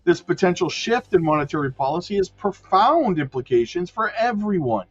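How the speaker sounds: measured, emphatic headline-and-story read; news read. Real, not acted. Streamer reading Fed rate news to viewers, newsreader delivery. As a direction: read the article out like a newscaster.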